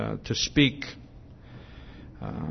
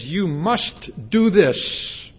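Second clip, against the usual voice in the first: slow parental command; 3 semitones higher, much slower than usual. Retold or imitated. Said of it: "The parent says".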